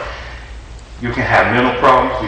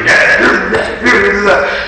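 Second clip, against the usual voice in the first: mock dismissive yeah; 8 semitones higher, 3 dB louder, much slower than usual. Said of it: "She was".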